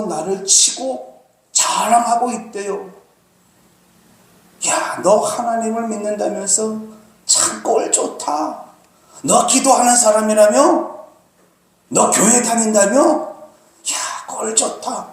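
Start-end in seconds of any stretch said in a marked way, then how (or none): 4.7-15.1 mocking enemy. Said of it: "비웃는다는 거예요".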